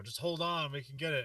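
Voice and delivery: imitated movie-rescuer urgency; urgent reassurance. Movie-style urging of dying man.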